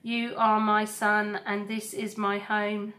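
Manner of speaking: a steady, tender robot mother. Acted. Roz comforts her son.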